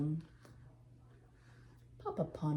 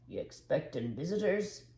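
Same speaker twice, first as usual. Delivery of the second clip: gruff. Acted. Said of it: "said the road sweeper gruffly".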